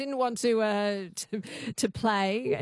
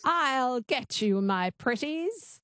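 witch twang; 2 semitones higher, slower than usual. Shown as a demonstration. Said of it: "Just say that".

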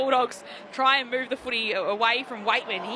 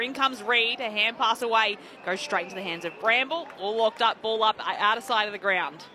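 live play-by-play. Real, not acted.

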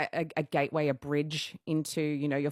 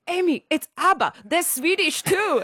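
hammed-up Swedish accent for a punchline; Max's Swedish accent; 13 semitones higher, 9 dB louder than usual. Repeating what Max said on the dance floor, in a Swedish accent. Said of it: "I won't do his accent".

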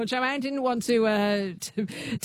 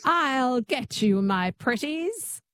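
witch twang attempt; 3 semitones higher, much slower than usual. Shown as a demonstration. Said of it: "Just say that".

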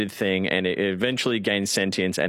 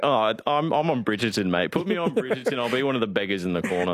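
lightly put-on Cockney beggar; chummy, hammed Cockney patter; Cockney accent. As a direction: audition in amateur Cockney. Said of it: "that was our audition for EastEnders".

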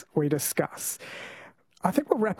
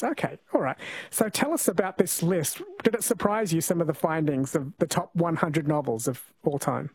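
usual speaking voice

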